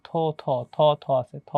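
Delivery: থ repeated as a separate syllable; sound singled out. Shown as a demonstration. Teacher drills the memory clue from the word, থ repeated on its own. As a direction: isolate each থ for the learner. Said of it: "কোথায় আমাদের থ আছে".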